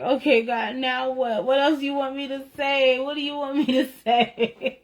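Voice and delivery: high-pitched pleading, laughing as it breaks; mock whine up to God, voice climbing; exasperated plea. Woman retelling her complaint to God, whiny exasperation.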